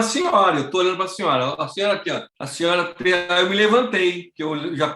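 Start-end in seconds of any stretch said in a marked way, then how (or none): none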